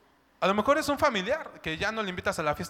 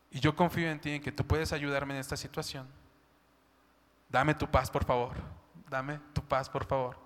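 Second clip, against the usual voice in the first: softer, pleading surrender; humble prayer; 3 semitones lower, 5 dB quieter than usual. Pretend. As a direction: lay the anger down before God. (oración humilde y suave)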